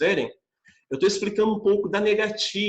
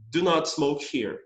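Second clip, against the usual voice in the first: slow formal model; slower than usual. Shown as a demonstration. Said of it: "eu posso dizer".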